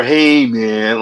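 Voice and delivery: a hint of stoned hippie; Tommy Chong. Shown as a demonstration. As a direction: lightly mimic a mellow stoner. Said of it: "kinda stoned".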